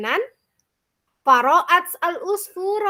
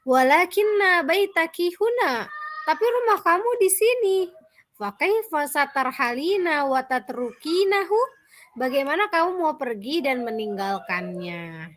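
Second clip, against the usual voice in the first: higher, startled bird voice; surprised; 4 semitones higher than usual. Acted. Bird surprised that the turtle wants to leave. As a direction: sound taken aback by the news. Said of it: "Usfur kaget dan berkata".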